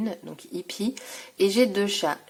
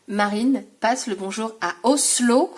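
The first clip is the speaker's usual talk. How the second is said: louder, carrying the greeting further; a bit louder; 2 semitones higher, 5 dB louder than usual. Real, not acted. Passing on Marine's greeting to Oslo, a bit louder. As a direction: raise your voice so it carries. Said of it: "Je le dis un peu plus fort".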